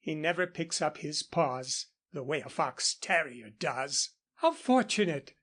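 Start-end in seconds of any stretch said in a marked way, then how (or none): 4.4-5.3 a mild pleased exclamation, a bit higher; understated glad exclaim. Acted. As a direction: brighten up as she spots the dogs. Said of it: "exclaimed Missus Waverley".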